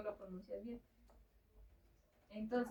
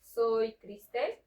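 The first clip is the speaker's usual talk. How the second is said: slow demo; 6 dB louder, much slower than usual. Shown as a demonstration. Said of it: "tú, cuando quieres decir".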